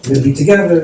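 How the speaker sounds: encouraging sons. Retold or imitated. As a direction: reenact children giving their father encouragement. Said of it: "try to give the father chizuk".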